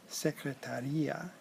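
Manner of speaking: secretaria with the stress on the A after the T, slowly; secretaria: the A after the T carries the accent, said slowly. Shown as a demonstration. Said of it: "has an accent on the A after the T".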